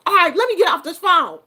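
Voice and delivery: fast, loud and high, cutting the call short; exasperated. Retold or imitated. Grandmother ending the phone call with her granddaughter, loud and rushed. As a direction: snap it out and hang up. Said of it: "I was like".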